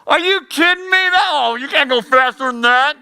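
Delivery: high-pitched, incredulous mock heckle; heckling judge. Judge heckling someone reciting the alphabet, incredulous. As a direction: scoff at them in a high put-on voice. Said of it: "judge number one and judge number three over here are like".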